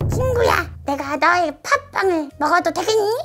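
high cartoon robot-cat character voice. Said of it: "도라에몽 성대모사라도 할까?".

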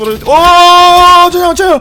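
high, loud, desperate yelling.

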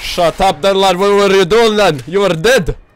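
brash, jokey put-on Scottish lad accent. Gamer mocks another player who died in the game, in a put-on scottish accent. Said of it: "I just answer a serious question with a Scottish accent".

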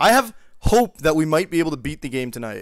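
hope stressed, said loudly.

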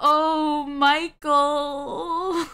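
playful, coy, flirtatious come-on tone. Dared by a donation to flirt, the speaker gives it a try: flirty. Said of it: "Do your best. Flirt to Michael".

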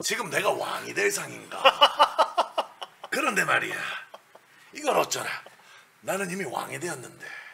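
low, rough, raspy put-on voice. Claiming to be good at it, doing a Lee Jung-jae impression. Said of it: "저 원래 이정재의 성대모사 잘해요".

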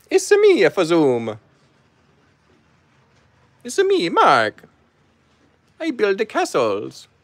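high, slow, swooping cartoon voice. After viewers hit 46 likes, the speaker does the promised Mario voice. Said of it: "Mario voice time".

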